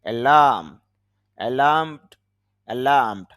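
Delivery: অ্যালার্ম and অ্যালার্মড with the r nearly dropped; soft r. Shown as a demonstration. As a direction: barely sound the র in অ্যালার্ম, অ্যালার্মড. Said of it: "র sound কম হবে". (অ্যালার্ম, অ্যালার্মড-এ র প্রায় অনুচ্চারিত)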